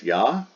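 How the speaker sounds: "ya" sounded alone as one beat; syllable by syllable. Shown as a demonstration. Teacher splits the Greek word for doctor, lone "ya". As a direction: isolate "ya" as a single y-glide syllable. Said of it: "two syllables, not three".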